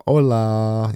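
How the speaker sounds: drawn-out, breezy hola; easy breezy. Shown as a demonstration. Streamer showing the mood of a font, easy breezy. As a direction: let the greeting stretch out, laid-back. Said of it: "like, an easy breezy font".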